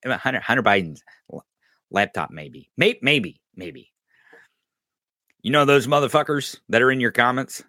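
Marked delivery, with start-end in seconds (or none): 0.1-3.9 mock troll fading out sheepishly; deflated troll voice. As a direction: mumble it like a troll who lost the argument. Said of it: "and they're like".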